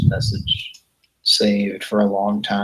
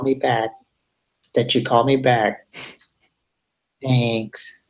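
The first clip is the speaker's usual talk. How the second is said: robocall impression; 3 semitones higher, slower than usual. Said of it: "impersonation of it".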